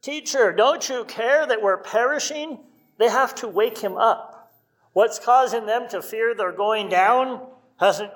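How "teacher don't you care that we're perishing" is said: panicked disciples. Retold or imitated. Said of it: "the freak out of the disciples".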